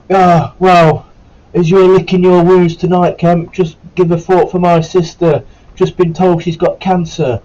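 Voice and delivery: high, loud, slow sarcastic corporal voice; bitter corporal impression. The corporal guilt-tripping the injured recruit, high and loud, slow and sarcastic. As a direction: lay the guilt on thick, slow and loud, in his voice. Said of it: "He went".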